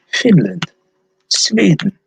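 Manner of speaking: mock Swedish lilt on single place names; Finnish-Swedish accent. Shown as a demonstration. Seller retries the Finland accent for viewers, mock Finnish-Swedish accent. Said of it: "kind of goes into my Swedish accent".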